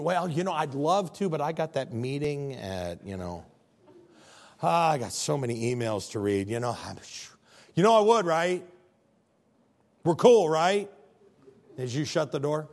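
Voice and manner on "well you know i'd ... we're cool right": breezy fake apology, louder at the end; smooth it over with excuses; excuse-making. Friend shutting the door on the hurt, breezy excuses.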